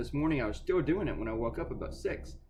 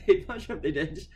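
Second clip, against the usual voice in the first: laughing; 8 semitones higher than usual. Real, not acted. Laughing at story.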